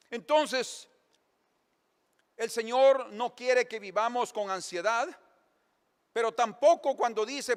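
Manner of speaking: loud, high, forceful preaching. Acted. Pastor preaching to the congregation at full force. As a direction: drive the point home to the congregation. Preaches about anxiety and laziness.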